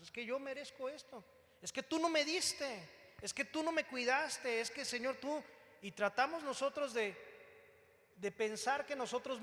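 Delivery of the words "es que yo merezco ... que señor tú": whiny reproach climbing a little higher; mock complaint. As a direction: imitate a believer complaining to God. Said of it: "Y reclamamos". (reclamo quejumbroso imitado)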